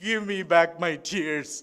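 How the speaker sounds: slow, drawn-out plea to God; a preacher's slow, pleading prayer to God. Retold or imitated. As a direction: beg slowly for the tears back. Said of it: "വീണ്ടും ദൈവത്തോട് പ്രാർത്ഥിച്ചു".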